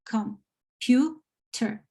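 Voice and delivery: COMPUTER broken slowly into three syllables. Shown as a demonstration. Teacher showing learners the three syllables of COMPUTER, slowly split apart. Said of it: "will be pronounced higher or stronger".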